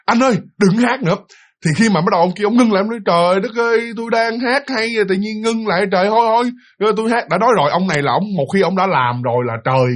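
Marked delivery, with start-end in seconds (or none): 0.1-1.2 higher-pitched mock scolding; retold snap. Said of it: "bạn nạt lên luôn đó nha". 3.1-7.3 high-pitched exasperated protest; mock-annoyed boyfriend; retold grumbling. Boyfriend complains at being interrupted.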